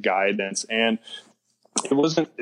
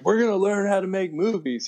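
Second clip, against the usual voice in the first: much higher, mock eager-student voice; cocky student; 11 semitones higher, faster than usual. Student piping up in his first film class, mock cocky. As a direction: imitate your young smart-aleck self piping up. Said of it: "I was a jerk".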